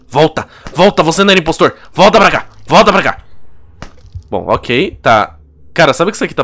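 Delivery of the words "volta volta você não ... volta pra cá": loud urgent calling. Real, not acted. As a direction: call him back, loud and urgent. Calling crewmate back in game. (chamando alto)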